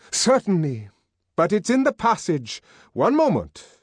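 a hint of a triumphant young man; lightly voiced Bernard.

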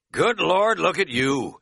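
high, loud cry of delight. A narrator's reading. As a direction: exclaim it with gleeful amazement. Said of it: "he cried, delighted at my grubbiness".

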